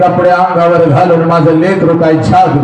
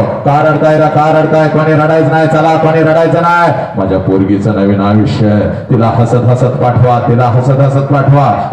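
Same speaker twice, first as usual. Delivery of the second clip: father calling out. Retold or imitated. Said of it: "सगळ्यांना ओरडतो".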